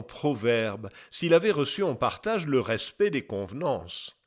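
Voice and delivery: put-on measured, slightly declaimed reading of an old text; lightly declaimed quotation. Narrator quoting an old scholar's testimony, lightly declaimed. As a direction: read it out as a formal testimony.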